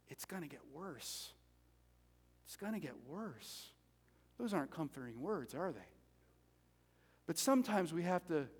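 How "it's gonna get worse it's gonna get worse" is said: very soft, low, grim warning; hushed retold word of doom; grave warning. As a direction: break hard news quietly, voice dropped right down. God's grim warning to Habakkuk, retold.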